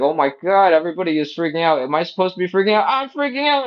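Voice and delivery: rising high, fast mock panic ending in a squeal; panicking baby. Baby voiced as it catches everyone's panic, rising high and fast. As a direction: spiral up into hammed-up panic. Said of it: "And they're like".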